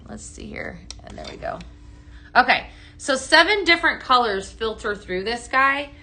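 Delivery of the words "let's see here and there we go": soft whispered aside to herself; whispering. Real, not acted. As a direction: whisper under your breath while fiddling. Fiddling quietly with the device.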